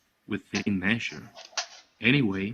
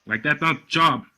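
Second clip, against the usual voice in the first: louder, emphatic pronouncement; father holding forth; 3 semitones higher, 5 dB louder than usual. Acted. Father lecturing his listening workers, loud and emphatic. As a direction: boss laying down his opinion, firm and loud.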